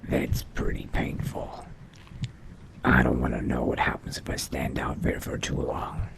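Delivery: vampire musing to self. Acted. Vampire retreats from the sun to try alchemy, hushed musing. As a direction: think aloud quietly, just for yourself. Character talks to self in scene.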